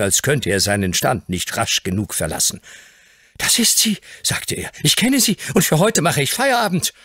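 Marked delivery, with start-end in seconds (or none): 3.4-4.0 put-on much higher, amazed boy's voice; stunned boy. Dick insists. 4.8-6.9 put-on much higher, amazed boy's voice; stunned boy. Dick packs up hastily.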